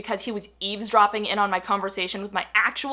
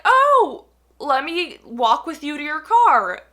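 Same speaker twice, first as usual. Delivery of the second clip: louder, higher eager offer; creepy guy; 3 semitones higher, 5 dB louder, slower than usual. Retold or imitated. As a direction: mimic his overeager insistence.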